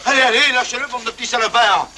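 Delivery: drill sergeant. Acted. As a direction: yell at the troops. Sergeant yelling at soldiers.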